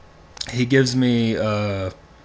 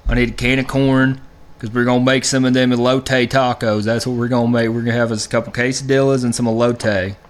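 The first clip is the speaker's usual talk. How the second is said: mock sweet lady voice. Cohost imitates his partner asking for corn, lightly sweet. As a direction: playfully imitate her sweet request. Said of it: "she'll be like".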